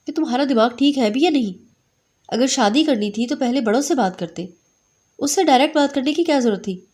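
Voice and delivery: a mother's mild mock scolding. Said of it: "ابراہیم کو ڈانٹ رہی تھی".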